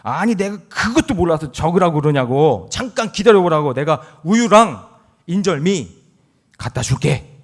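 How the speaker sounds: hammed-up irritated grandma, slowing at the end; grandma snapping back. Grandma snaps back at grandpa, mock angry and loud. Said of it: "할머니가 할아버지에게 화를 내면서".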